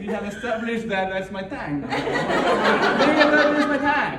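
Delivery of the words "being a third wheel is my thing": higher, louder, slow laughing line; laughing punchline. Real, not acted. Comic owning the third-wheel joke, laughing and slow.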